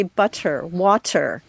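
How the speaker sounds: butter and water with crisp T sounds, no flap; clear T's. Shown as a demonstration. Guest showing how she pronounces her T's. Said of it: "I pronounce those T's".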